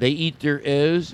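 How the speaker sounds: rough Philadelphia accent, leaning on the O's. Shown as a demonstration. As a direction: try out a Philly O in "O's". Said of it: "Is that the way you say it?".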